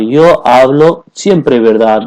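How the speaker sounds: "Yo hablo siempre verdad" drawn out slowly; slow model sentence. Shown as a demonstration. Teacher modelling the full sentence for students, slowly. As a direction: stretch it out for learners to copy. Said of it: "अब आपने focus करना".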